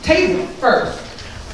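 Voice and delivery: ordinary talk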